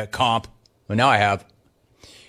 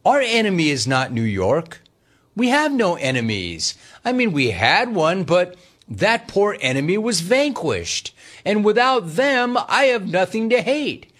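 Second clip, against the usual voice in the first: syrupy calm radio, half-joking; mock nice radio; 2 semitones higher than usual. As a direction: play the peaceful, nice host in jest. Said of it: "why don't we do nice radio?".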